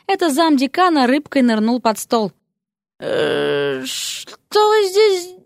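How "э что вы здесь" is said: frightened blurt. A narrator's reading. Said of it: "выпалил побледневший Эрик".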